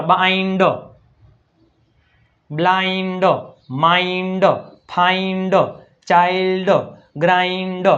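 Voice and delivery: each word from બાઇન્ડ to ગ્રાઇન્ડ stretched on the "ai"; word-list drill, ચાઇલ્ડ with a drawn-out "ai"; long "ai" sound. Shown as a demonstration. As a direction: sound out બ્લાઇન્ડ, માઇન્ડ word by word, vowel held. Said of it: "આઈનો ઉચ્ચાર શું થાય".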